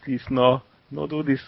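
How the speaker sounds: pleading in a mock Hispanic accent. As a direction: beg in a hammed-up Mexican accent. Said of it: "keep talking like that".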